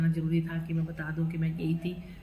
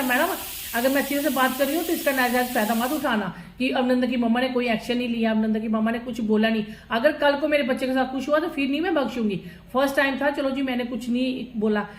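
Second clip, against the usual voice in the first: stern warning; 4 semitones higher than usual. Retold or imitated. Mother warning the teacher firmly.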